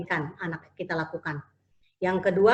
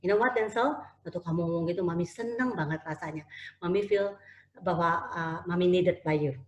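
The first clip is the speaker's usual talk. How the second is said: tender praise; 3 semitones lower, 5 dB quieter than usual. Retold or imitated. Mother praises son softly.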